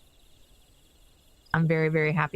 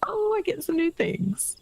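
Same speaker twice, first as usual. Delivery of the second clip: whisper; 13 semitones higher than usual. Real, not acted. Excited aside to herself.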